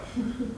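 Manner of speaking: brief quiet, high chuckle; a small high laugh under the breath; short soft laugh. Acted. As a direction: chuckle softly for a moment. Laughs at his talk of ships.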